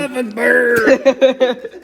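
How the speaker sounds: excited shout. Real, not acted. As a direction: shout the answer out proudly. Child shouts the punchline.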